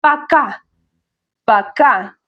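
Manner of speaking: Пока with stress on the final а; stress on last syllable. Shown as a demonstration. Teacher models Пока twice, stress on final syllable. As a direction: lean on the second syllable of Пока. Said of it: "The stress is on the last syllable".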